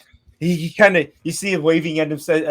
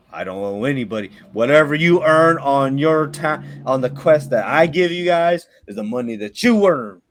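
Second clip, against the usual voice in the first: resigned quest-giver; 3 semitones lower than usual. Acted.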